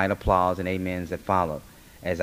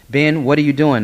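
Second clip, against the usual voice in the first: loud, high protest; alarmed cry; 8 semitones higher, 11 dB louder than usual. Acted. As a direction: call out to stop your husband. Mother rushes in on the violence.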